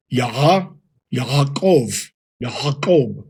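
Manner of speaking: "Yaakov" as ya-HA-kov, throaty middle; Yaakov with Hayin. Shown as a demonstration. Teacher demonstrating Jacob with the guttural. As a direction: say "Yaha, Yaakov" with a back-throat h. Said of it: "you will say".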